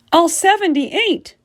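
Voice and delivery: high, slow astonished cry; all seventy-eight, drawn out in awe; amazed. A narrator's reading. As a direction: stretch it out in disbelief. Child amazed at appetite.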